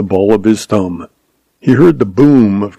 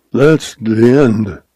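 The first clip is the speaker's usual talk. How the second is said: slow, choked dying words; gurgled; slower than usual. A narrator's reading. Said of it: "He heard himself gurgle out".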